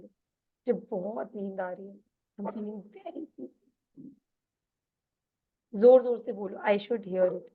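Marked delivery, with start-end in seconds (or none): 0.0-3.5 slow, fading, drowsy murmur; sleepy demo. Shown as a demonstration. Coach showing the sleepy line, slow and soft. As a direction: say it as if nodding off. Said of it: "अपने आप को ये बात कम से कम दस बार बोलो".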